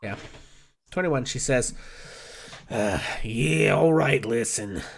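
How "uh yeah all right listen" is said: put-on bartender in a drawn-out northeastern US accent; slow, grudging northeastern US barkeep. Bartender answers Oz at the bar, northeastern US accent. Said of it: "have the exact same accent".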